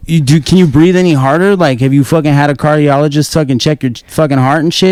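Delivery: mock exasperated taunt. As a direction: imitate a fed-up player heckling. Retold lobby taunt.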